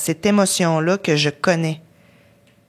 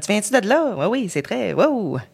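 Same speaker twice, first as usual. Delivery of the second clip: imitating a Lac-Saint-Jean accent with a lilt rising higher; 4 semitones higher than usual. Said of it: "t'avais la petite swing". (imitation légère de l'accent du Lac-Saint-Jean, plus aiguë)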